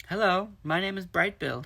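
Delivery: high, loud call; shouting over waves. Acted. Gosling calling to otters over the waves, shouting. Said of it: "he shouted over the waves".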